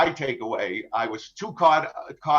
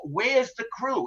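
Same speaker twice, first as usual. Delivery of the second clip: higher, slow, drawn-out question to the captain; pirate demanding; 7 semitones higher, 3 dB quieter, slower than usual. Retold or imitated. Captain imitating pirates demanding the crew's whereabouts, high and slow. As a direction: lean into each word like a demanding captor. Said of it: "that's what they constantly queried me".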